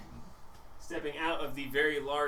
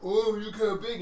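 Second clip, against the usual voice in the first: ogre voice; 7 semitones higher, 4 dB louder than usual. Acted. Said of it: "And the ogre's like".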